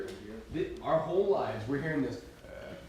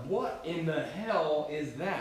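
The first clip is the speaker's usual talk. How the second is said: puzzled thought; 2 semitones higher, slower than usual. Retold or imitated. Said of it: "I'm thinking to myself".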